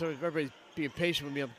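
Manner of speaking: stuffy voice from a cold; blocked nose. Real, not acted. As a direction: talk like your nose is blocked. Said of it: "I still sound like I'm holding my nose".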